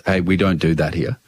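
low, firm barman warning; stern barman. Retold or imitated. Barman warning the customer off, a low stern voice.

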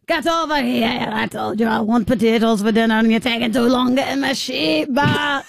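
Irish farmer. Acted. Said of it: "You're an old Irish farmer".

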